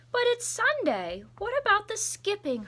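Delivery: put-on high, loud whiny child; little brother protesting. Little brother calling after Tilly, high and whiny. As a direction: plead like a disappointed little kid. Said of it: "her brother called".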